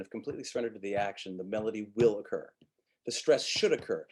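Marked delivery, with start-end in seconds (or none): 3.1-4.0 "should" punched in the middle; misplaced emphasis on "should"; stress on SHOULD. Shown as a demonstration. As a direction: lean oddly on the word "should". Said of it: "There's another one, stress".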